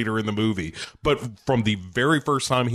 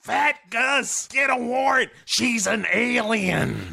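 high put-on dumb-cop voice; mock detective; 12 semitones higher, slower than usual. Detective ordering partner Gus, high mock voice.

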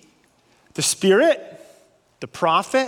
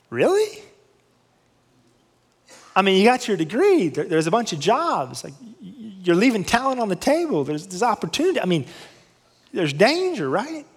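surprised father. Retold or imitated. Father's reply on the phone.

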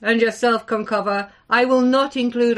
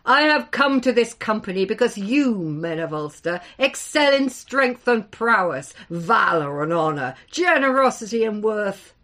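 louder, ringing giant's address; strong, resonant voice; 4 dB louder than usual. Acted. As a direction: proclaim it to the whole hall. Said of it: "his voice grew in strength and resonance".

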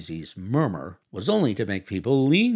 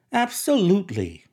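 abrupt, higher, louder word; sudden; 9 semitones higher, 5 dB louder than usual. A narrator's reading. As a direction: blurt it out of nowhere. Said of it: "with such suddenness that I started".

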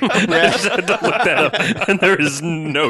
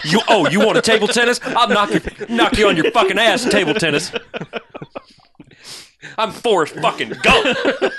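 cocky higher trash talk; 6 semitones higher than usual. Pretend. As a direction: threaten like a brash jackass. Danny McBride Gump taunting.

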